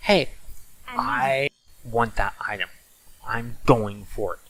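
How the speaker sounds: plain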